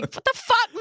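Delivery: high-pitched incredulous shout; hammed-up, emphatic outburst; mock outrage. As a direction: yell it as a friend's exaggerated refusal. Imagined outraged reply from friend.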